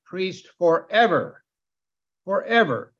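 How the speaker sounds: FOREVER slowed, with weight on EVER; stress on FOREVER. Shown as a demonstration. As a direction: land firmly on each "forever". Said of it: "an emphasis on this word forever".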